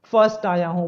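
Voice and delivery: teacher playing a pupil overjoyed at topping the class; overjoyed child. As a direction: act a kid thrilled at coming first. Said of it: "फूले नहीं समाते".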